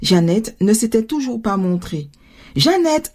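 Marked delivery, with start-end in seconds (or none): 2.6-3.1 high call from the window. A narrator's reading. Mother calls her daughter from the window, calling out. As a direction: call for a child, pitched up. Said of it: "appela maman en retournant à la fenêtre".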